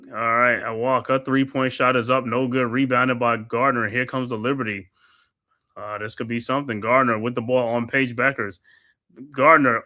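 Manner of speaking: steady courtside commentator calling each pass; play-by-play call. Acted. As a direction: narrate the possession like a broadcaster. Calls the game play-by-play.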